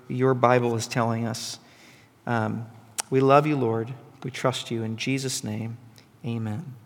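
quiet, unhurried prayer. Real, not acted. Preacher asking Jesus to bless the morning, quiet prayer. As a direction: pray gently, softening toward the amen.

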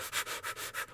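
voiceless, rapid muffled puffs; smothered breathing. Retold or imitated. Sleeper smothered by a blanket, imitated struggling breaths. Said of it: "like, trying to breathe".

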